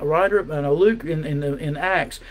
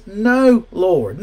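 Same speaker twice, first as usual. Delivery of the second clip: emphatic refusal; 3 semitones higher, 5 dB louder than usual. Acted. Preacher voicing Peter refusing God, loud emphatic refusal.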